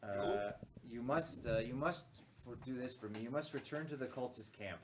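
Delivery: loud, deep commanding voice. Acted. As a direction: give an urgent quest in a deep voice. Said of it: "I'll give him a deep voice".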